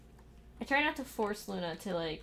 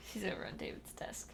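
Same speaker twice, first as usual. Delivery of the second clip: soft unvoiced whisper; 2 semitones lower, 6 dB quieter than usual. Real, not acted. Watching the cat on the desk, whispered. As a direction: whisper as if not to alert her.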